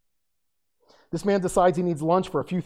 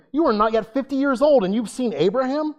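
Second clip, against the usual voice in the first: scoffing disbelief; 8 semitones higher, 5 dB louder than usual. Acted. Jews scoff at Jesus.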